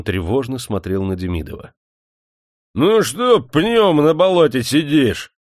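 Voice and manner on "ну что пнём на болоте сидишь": громкий медленный окрик; прикрикнуть на холопа, растягивая; крик. Acted. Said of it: "закричал на него хозяин". (хозяин кричит на Черепанова, громко и медленно)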